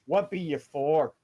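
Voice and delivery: a hint of a gruff dwarf at the door. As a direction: demand it with a touch of dwarven gruffness. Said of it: "in a gruff voice".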